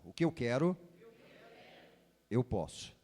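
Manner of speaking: solemn booming prophet proclamation. Shown as a demonstration. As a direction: proclaim it like an Old Testament prophet. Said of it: "voz de profeta".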